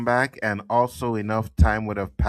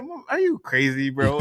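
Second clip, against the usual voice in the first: mock disbelief; 3 semitones higher than usual. Acting out his own reaction to the joke, mock incredulous. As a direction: toss it out in joking disbelief. Imitates a reaction he would give.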